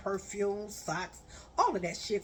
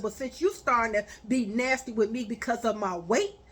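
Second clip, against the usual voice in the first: angry; 4 dB louder than usual. Retold or imitated. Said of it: "I said".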